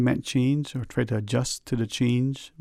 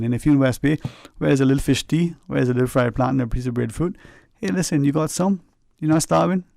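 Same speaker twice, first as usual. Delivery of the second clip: West Bay dialect; 4 dB louder, faster than usual. Retold or imitated. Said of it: "For those who don't speak West Bayese".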